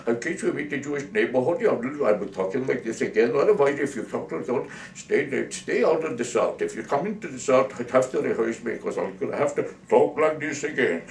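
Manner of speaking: sing-song mock Indian accent. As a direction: keep up a put-on Indian accent. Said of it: "found out the Indian was an American citizen".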